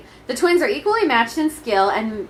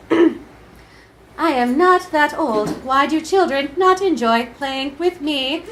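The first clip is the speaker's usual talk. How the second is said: lamenting console; 3 semitones higher, slower than usual. Acted. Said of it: "lamented S N E S".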